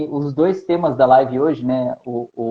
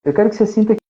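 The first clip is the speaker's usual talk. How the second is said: guided meditation; 3 semitones lower than usual. Acted. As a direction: lead them gently into relaxation. Conduz meditação guiada ao vivo. (meditação guiada, voz calma)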